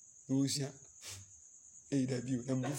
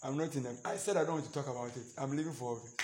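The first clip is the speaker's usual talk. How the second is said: mock sulk; 3 semitones lower, 11 dB quieter, faster than usual. Acted quarrel, sulking spouse.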